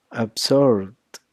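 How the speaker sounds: "absorbed" ending in a voiced D. Shown as a demonstration. Teacher demonstrating the D sound, "absorbed" closing on D. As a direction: finish "absorbed" on D, no extra syllable. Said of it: "then the sounds that I pronounce sounds like".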